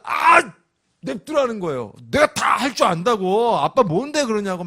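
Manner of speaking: put-on high, loud irritated kid's outburst; annoyed kid yell. Son telling dad to leave him alone, loud and annoyed. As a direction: shove dad off with a whiny yell.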